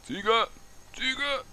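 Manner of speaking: shouting. Real, not acted. Gamer shouting at a goat, high yelling call. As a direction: yell the word at the goat. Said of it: "Ich will die Ziege noch anbrüllen".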